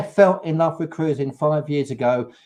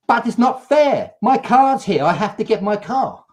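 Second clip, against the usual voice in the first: higher, mock childish whine of the rep; mock whiny insistence; 6 semitones higher than usual. Mocking the rep who took them back for her car, whiny mock whine. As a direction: whinge it like a sulky child wanting her car.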